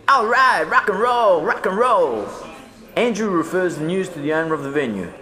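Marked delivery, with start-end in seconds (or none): 0.1-2.3 loud, high rock and roll cheer; excited cheer. A narrator's reading. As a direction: whoop it up in celebration. Cheering the good news.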